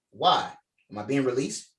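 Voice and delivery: "Why" as its own question, then "am I being released?"; two questions. Shown as a demonstration. Director showing the actor how to split "Why am I being released?". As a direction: break after "Why". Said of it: "So say it like".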